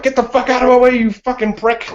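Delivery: high-pitched mock road rage that dissolves into a laugh; imitating angry drivers. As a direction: throw out a hammed-up Boston driver insult. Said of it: "people behind me are like".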